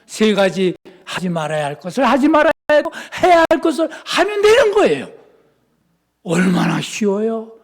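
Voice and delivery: ordinary talk, nothing marked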